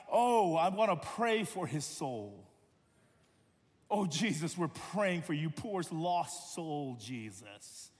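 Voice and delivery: backhanded pity, like a pious slap. Retold or imitated. Pharisees pray over Jesus in mock pity. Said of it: "Pitying Jesus".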